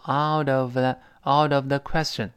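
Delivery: "out of the question" run together, t softened to a d; linked words. Shown as a demonstration. Teacher drilling students on "out of the", linked. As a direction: link "out of the" smoothly as one word. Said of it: "我们注意这个连读".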